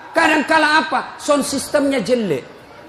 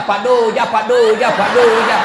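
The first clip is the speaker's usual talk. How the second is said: mock calling out; 3 semitones lower than usual. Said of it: "Berteriak ni temannya".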